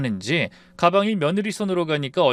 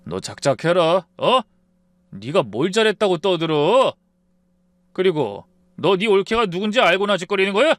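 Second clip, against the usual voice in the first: louder angry brother; stern rebuke; 4 semitones higher, 4 dB louder than usual. Acted. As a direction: glare and snap at his sister. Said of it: "눈을 험하게 부라리더라고요".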